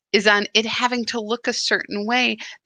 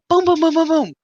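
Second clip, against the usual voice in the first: much higher, louder bursting beats; excited burst; 8 semitones higher, 6 dB louder, faster than usual. Real, not acted. Host describing new energy bursting, excited rising chant. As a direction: let it burst out of you.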